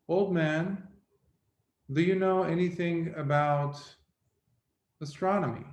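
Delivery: scholar quizzes the old boatman, lightly voiced young scholar. Young scholar to old boatman about his learning, lightly voiced young scholar.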